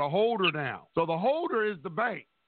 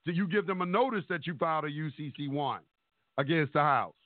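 choppy phone line breaking up; buzzy glitchy call audio. Real, not acted. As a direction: voice cutting in and out on a bad call. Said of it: "you breaking up real bad".

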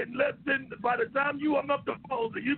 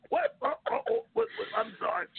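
laughing; 11 semitones higher than usual. Real, not acted. Still laughing after clip.

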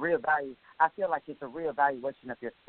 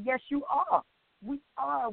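emphatic yes; 9 semitones higher, slower than usual. Shown as a demonstration. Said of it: "So if somebody say brother or sister, say".

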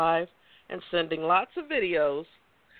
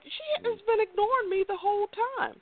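mock complaint. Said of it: "I'm like".

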